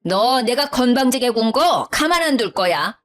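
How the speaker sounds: high-pitched angry mother-in-law demanding an apology; yelling mother-in-law. Acted. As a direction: shout her down from outside the door. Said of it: "소리를 지르더라고요".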